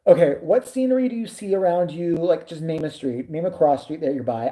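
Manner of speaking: condescending simplified talk. Retold or imitated. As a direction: talk down with mock patience. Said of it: "I have to speak, like, special people to him".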